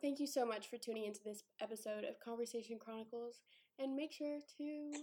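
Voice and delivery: soft, polished host voice; customer service voice. Pretend. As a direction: read it like a helpdesk podcast host. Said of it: "put my customer service voice on".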